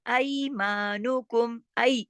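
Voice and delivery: slow ऐमानुकुम opening on a-to-i glide; ya leen diphthong. Shown as a demonstration. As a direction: recite ऐमानुकुम with gliding ऐ and long maa. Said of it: "इस तरह ऐ है". (ऐमानुकुम में ऐ की लीन आवाज)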